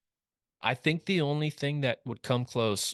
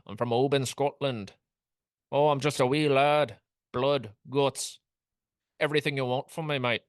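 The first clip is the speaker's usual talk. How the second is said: higher, hammed-up bad Scottish accent; Bobby McIntyre; 4 semitones higher than usual. Golf podcaster mocking a Scottish champion, bad Scottish accent. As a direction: put on a shaky-grasp Scottish accent, playing the wee lad. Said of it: "I've no idea what accent this is".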